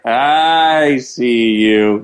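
very slow, drawn-out teasing; playful peekaboo. Acted. Host imagines seeing callers' faces, slow and teasing. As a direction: stretch every word out playfully. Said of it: "I wanna be like".

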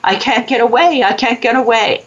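lightly voiced young girl pleading; little girl. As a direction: echo the trapped girl's helpless cry. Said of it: "the little girl's like".

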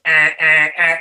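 short repeated horn blasts; mimicked motorcycle horn; imitated horn. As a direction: honk it out with the voice. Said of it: "hitting the horn that goes".

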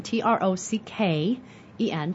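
T R O C K E N, letter by letter, slowly; spelling trocken aloud; spelled out. Shown as a demonstration. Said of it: "It has the word trocken".

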